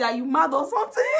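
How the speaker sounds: light laughing shout of the catchphrase; half-laughing mock yell; laughing mock taunt. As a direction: toss it off laughing. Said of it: "Poko say".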